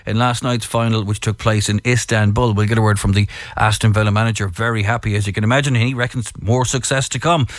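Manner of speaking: radio sports bulletin delivery; sports news read. Real, not acted. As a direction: read out the sporting headlines as a presenter. Reads the sports headlines.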